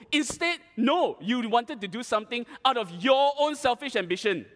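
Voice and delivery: heated, emphatic scolding; frustrated captain. Retold or imitated. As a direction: act out an exasperated captain's rebuke. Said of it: "he's obviously frustrated".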